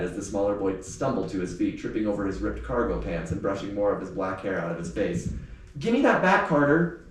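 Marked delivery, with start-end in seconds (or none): 5.8-7.0 high, loud cry to get the book back; desperate shout. Acted. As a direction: yell it up at the bigger boy. Sammy shouts at the bully.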